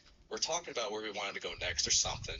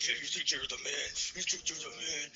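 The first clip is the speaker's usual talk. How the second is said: strained, higher mock yell at no extra volume; retold angry screaming; 5 semitones higher than usual. Storyteller imitating a stranger screaming in his face, mock angry yell. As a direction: imitate an enraged man squaring up. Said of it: "screaming in my face".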